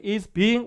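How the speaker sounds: "Is being" slow, climbing on "being"; rising tune. Shown as a demonstration. Teacher modelling sentence intonation, slow rising "Is being". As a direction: lift the pitch through "being". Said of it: "올라가요".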